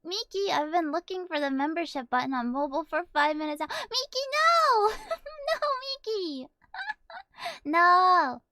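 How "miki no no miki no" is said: high, loud mock protest; playful outcry. Real, not acted. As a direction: cry out at a friend.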